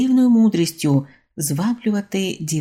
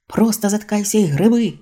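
louder, higher and sharp with impatience; loud order; 4 semitones higher, 5 dB louder than usual. A narrator's reading. Father orders his son to row, loud impatient order. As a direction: tell him to shut up and row, loudly.

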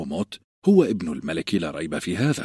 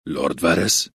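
surprised exclamation. Acted. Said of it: "وصاح نيد بدهشة".

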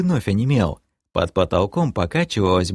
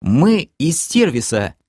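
strained squeeze; 6 semitones higher, slower than usual. Acted. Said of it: "выдавил док".

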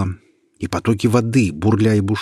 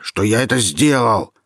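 Michel yelling; 3 semitones higher, 4 dB louder than usual. Acted. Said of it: "закричал Михель".

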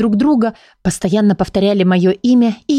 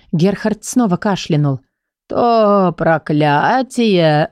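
very slow, hemming rasp; hesitant husky old book; slower than usual. Acted. Gerhard awkwardly explains the cure to Dilly, hesitant. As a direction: hem and haw awkwardly.

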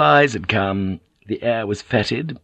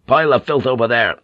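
firm order; 2 semitones higher, 5 dB louder, faster than usual. Acted. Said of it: "he ordered".

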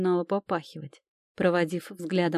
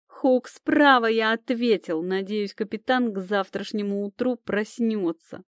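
рычит; 4 semitones higher than usual. Acted. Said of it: "прорычал эльф".

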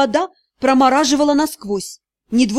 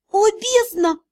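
higher, drawn-out wail; tearful cry; 6 semitones higher, slower than usual. A narrator's reading. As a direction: exclaim in anguish through tears. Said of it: "Сорванный от рыданий голос звучал так глухо". (отчаянный возглас сквозь слёзы)

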